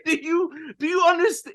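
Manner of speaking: squeaky mock exasperation; exasperated yell. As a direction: repeat it at them, beside yourself. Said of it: "He's like, he's like".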